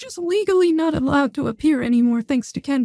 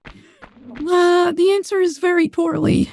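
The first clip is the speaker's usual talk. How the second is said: voice changer. Real, not acted. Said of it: "with the voice changer on".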